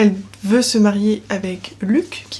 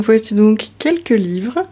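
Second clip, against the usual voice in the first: restarted intro; slower than usual. Shown as a demonstration. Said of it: "Je disais donc".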